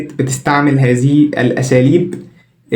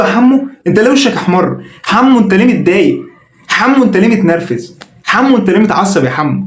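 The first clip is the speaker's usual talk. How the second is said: higher, fussy mock sympathy; mock concern; 4 semitones higher than usual. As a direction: coo over him like a meddler. Ayman fusses over the insulted Hamo. (تعاطف ساخر بصوت أعلى)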